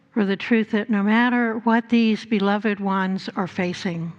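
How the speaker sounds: ordinary delivery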